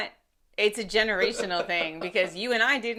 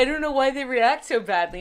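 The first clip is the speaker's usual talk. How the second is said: mock clueless parent; 2 semitones higher than usual. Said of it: "And then you're like".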